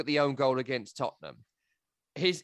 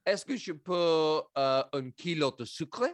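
mock French. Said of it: "minuscule français".

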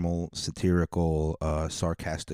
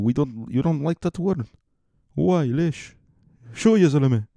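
put-on excitable Arab-accented host, pitched up; 5 semitones higher, 4 dB louder than usual. Host quarrels with guest in an Arab-accented voice. Foreign character arguing in Arabic.

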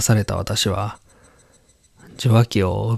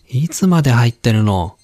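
scolding mother; 2 semitones higher than usual. Acted. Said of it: "お母さんのようだ".

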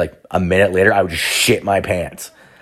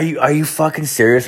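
exasperated disbelief; 6 semitones higher than usual. Retold or imitated. Disbelief while sick beside the bed.

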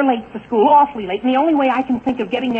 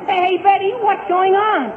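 calling out; 7 semitones higher than usual. Acted. Calling to Betty across.

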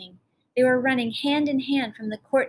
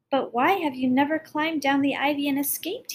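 mild cry; 4 semitones higher than usual. Acted. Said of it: "he cried".

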